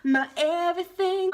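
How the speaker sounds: high, loud, drawn-out melodramatic wailing; slow singsong mock sobbing lament; mock heartbroken wail. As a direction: wail it like a lovesick teenager, hammed up. Acting crushed teenage heartbreak, mock wail.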